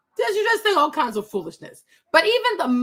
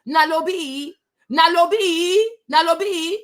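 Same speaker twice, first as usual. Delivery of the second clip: chanting place names, rising; hyped calling out; 5 semitones higher, 4 dB louder, slower than usual. Pretend. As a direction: call it out like a crowd.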